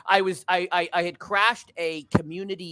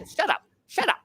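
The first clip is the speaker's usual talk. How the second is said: mock hushing; 13 semitones higher than usual. Brother hushing in retold scene.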